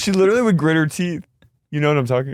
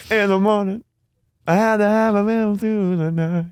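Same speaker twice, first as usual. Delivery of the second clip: high sultry tease; 4 semitones higher than usual. Retold or imitated. Voicing Heather serenading Emily.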